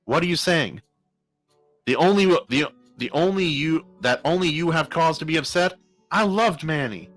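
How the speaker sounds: upset, pleading objection; protesting. A narrator's reading. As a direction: defend yourself against the accusation. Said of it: "protested Karma".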